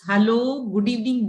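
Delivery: ordinary talk, nothing marked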